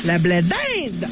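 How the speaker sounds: low, drawn-out intro call; slow, lowish segment title call; botched intro. Acted. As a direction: announce it slowly, missing the cue. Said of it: "j'ai raté le cul".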